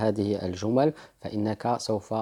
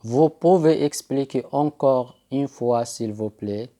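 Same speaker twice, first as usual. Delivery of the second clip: slow, careful French request; teacher modelling a request slowly; slow model sentence; slower than usual. Shown as a demonstration. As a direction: spell it out slowly for pupils. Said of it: "فإنك تقول".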